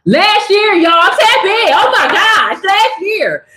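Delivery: giggling disbelief at how recent it was; laughing amazement. Real, not acted. Amazed at time, telling viewers, laughing and excited.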